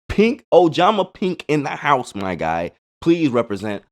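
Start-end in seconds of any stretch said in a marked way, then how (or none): 0.1-2.2 drawn-out, higher hype call; hype announcer. Acted. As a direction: announce it like a ring entrance. Hyping up his favourite card.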